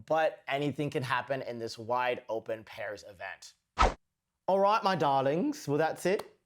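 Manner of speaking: light mock British accent over skating commentary; lightly faked British accent; recapping the Sheffield Grand Prix in a put-on British accent. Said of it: "This is my terrible accent".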